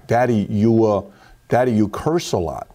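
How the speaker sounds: low-pitched, lightly voiced young boy, halting; nervous little son. Six-year-old son testing dad with a complaint, lightly imitated, halting. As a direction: imitate a hesitant child working up to it. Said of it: "this is how he talks to me".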